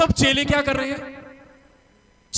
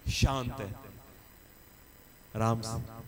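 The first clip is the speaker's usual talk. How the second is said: much lower and softer; soft and calm; 14 semitones lower, 11 dB quieter than usual. Shown as a demonstration. Preacher contrasting calm Jesus with the storm, soft and calm. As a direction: settle into stillness.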